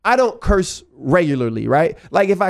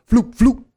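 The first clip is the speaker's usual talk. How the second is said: spoken "floop" sound effect; two quick vocal flicks; imitated flip-flop noise; 3 semitones higher than usual. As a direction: mimic sandals flicking off, one by one. Imitates flip-flops coming off.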